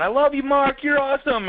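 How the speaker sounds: high, excited gushing praise; adoring fan cheer. Acted. Fan in the crowd cheering Mark on, high and excited. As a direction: cheer him on like a thrilled fan.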